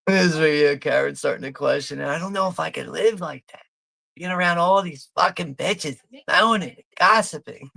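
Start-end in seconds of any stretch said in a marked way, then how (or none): 2.1-7.7 higher-pitched mock Karen, lightly done. Voicing Karen's complaint about the gossiping wives, higher pitched. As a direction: mimic Karen's disgust at the other wives.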